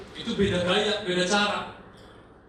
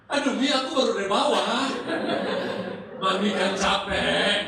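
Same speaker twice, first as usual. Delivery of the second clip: put-on whiny teen; 4 dB louder than usual. Teen whining at mother in skit.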